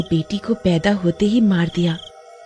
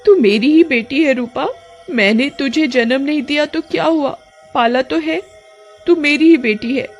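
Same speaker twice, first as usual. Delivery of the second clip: higher, tender reassurance; reassuring mother; 5 semitones higher than usual. Acted. Snake witch assuring Roopa she is her daughter, tender. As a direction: hold her daughter close with words.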